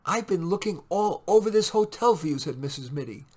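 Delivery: high, loud scolding wife voice; nagging wife. A narrator's reading. Wife scolding Mitty in the lobby, high nagging. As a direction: scold him as the impatient wife.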